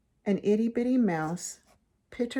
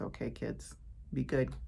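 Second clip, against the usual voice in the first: whispering; 7 semitones lower, 8 dB quieter than usual. Real, not acted. Soft closing to kids.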